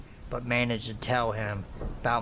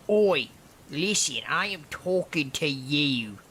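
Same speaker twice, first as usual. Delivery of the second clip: acted confrontational insistence, pitched up; insistent stranger; 4 semitones higher than usual. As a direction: demand attention as a pushy heckler. Stranger insists she listen.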